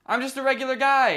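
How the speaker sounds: high, pleading zombie voice; zombie character. Acted. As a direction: talk him down nervously.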